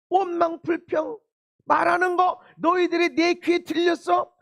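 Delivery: shouted rebuke from God; God shouting at the complainers; stern shout. Acted.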